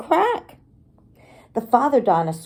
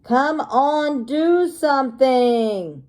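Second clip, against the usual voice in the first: lightly voiced dad; 5 semitones higher, slower than usual. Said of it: "There's the daddy dinosaur saying".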